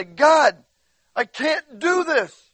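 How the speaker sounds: high, loud wail of complaint, hammed up; mock whining cry. Preacher acts out himself complaining to God, mock whining cry. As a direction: whine it up to God like an overwhelmed child. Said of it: "I start whining and crying".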